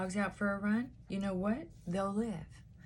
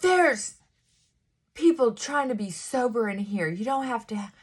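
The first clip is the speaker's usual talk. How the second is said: indignant retold scolding; 2 semitones higher, 6 dB louder than usual. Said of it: "somebody goes".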